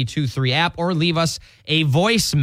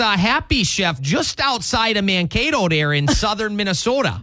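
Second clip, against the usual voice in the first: higher, hammed-up Minnesota accent; thick Minnesota accent; 5 semitones higher than usual. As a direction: lean hard into a Minnesota accent. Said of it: "do it in a thick Minnesota accent".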